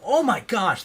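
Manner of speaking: high, loud imitated cry of pain; retelling a shocked subject's yelp; mock pained cry. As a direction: act out real hurt, lightly. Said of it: "they would go".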